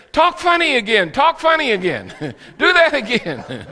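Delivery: high, loud imitation of children; excited kids clamouring. Missionary imitates village kids begging for duck voice, high shouts. Crowd of kids calling for more.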